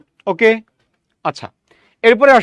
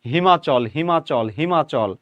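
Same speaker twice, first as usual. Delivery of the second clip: হিমাচল said as one merged word; blended word; 4 semitones lower, slower than usual. Shown as a demonstration. Teacher showing the merged হিমাচল. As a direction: run হিমাচল together smoothly. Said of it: "বলতে বলতে আপনি বলছেন কি".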